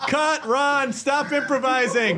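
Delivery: exasperated film director. Acted. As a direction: call a halt to the take. Director halting an actor's improvising.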